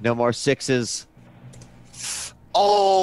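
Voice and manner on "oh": high, drawn-out whoop of triumph; excited cheer. Real, not acted. Celebrating a dice roll, excited shout. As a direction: let out a loud, rising cheer.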